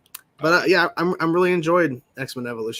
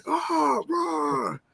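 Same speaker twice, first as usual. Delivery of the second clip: mock roar; 13 semitones higher, 4 dB quieter than usual. Mimics the yelling character on screen.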